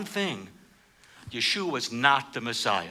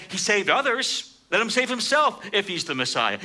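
sneering; 6 semitones higher than usual. Retold or imitated. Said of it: "the rulers sneered at him".

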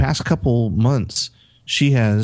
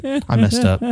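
dismayed realization; 12 semitones higher, slower than usual. Retold or imitated. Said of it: "Saying all sorts of stuff in my head".

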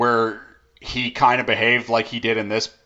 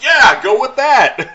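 much higher, slow mock approval; careless approval; 13 semitones higher, 7 dB louder, slower than usual. The producer approving the pitch, hammed-up careless. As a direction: wave it through lazily, way up high. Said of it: "They're like".

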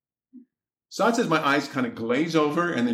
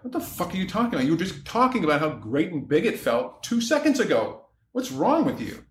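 retold indignant outburst, pitched up; indignant retort; 3 semitones higher than usual. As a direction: act out being offended and incredulous. Retells own indignant reply in argument.

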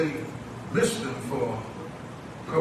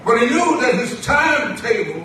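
raised, emphatic sermon delivery; preaching; 11 semitones higher, 9 dB louder than usual. Acted. Preacher explains the divine timetable to the church, preaching. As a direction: drive the point to the congregation. Preacher lifts out of quiet aside.

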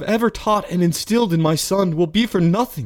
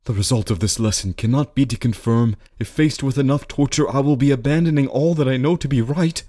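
higher-pitched, troubled soliloquy; anguished reasoning; 6 semitones higher than usual. A narrator's reading. Man of honor wrestles with becoming a thief, anguished. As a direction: plead with your own conscience.

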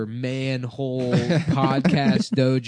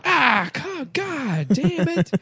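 higher, slow mock groan of a let-down dad; frustrated dad; 13 semitones higher, much slower than usual. Host plays a dad whose son strikes out, hammed-up. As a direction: sigh it out like a disappointed father. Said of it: "then he's like".

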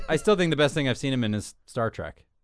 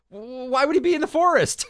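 imitating Drew Barrymore; 6 dB louder than usual. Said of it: "And Drew Barrymore goes".

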